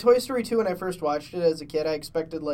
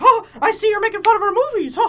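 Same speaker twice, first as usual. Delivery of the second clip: very high, shrill, very loud, booming cartoon-mouse voice; 9 dB louder than usual. Imagining Disney barging in on them, doing a Mickey Mouse voice. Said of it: "He's gonna be like".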